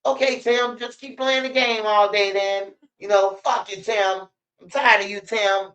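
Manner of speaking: high, mock-exasperated mom voice; fed-up mom. Mom scolding lazy son Tim, high mock exasperation. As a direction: play the fed-up mother scolding her son. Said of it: "The mom be like".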